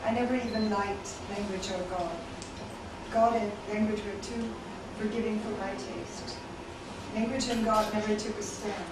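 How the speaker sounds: measured, deliberate poem delivery with pauses between phrases; spoken-word recital in even, spaced lines; poetry reading. Acted. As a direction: read it as a poem to a listening room. Reads own poems to audience.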